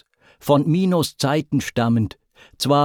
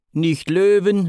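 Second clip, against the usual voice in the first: raised, declamatory call; higher-pitched proclamation; 9 semitones higher, 4 dB louder than usual. A narrator's reading. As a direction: exclaim it higher, as a proud god. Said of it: "rief Poseidon".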